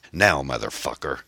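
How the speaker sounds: understated menacing order; restrained roar; angry roar. Acted. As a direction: give a mildly forceful angry command. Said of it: "Kyle roared".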